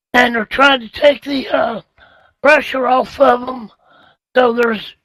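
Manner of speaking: hoarse, strained voice from laryngitis. Real, not acted. Host with laryngitis answering on air, hoarse and strained. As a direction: push the words out through a sore throat. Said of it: "Les has kind of got a little bit of laryngitis tonight".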